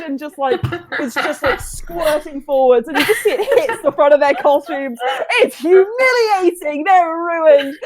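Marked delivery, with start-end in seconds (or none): 3.2-7.7 dramatic narration. A narrator's reading. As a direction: lament it like a tragedy. Narrating the disaster.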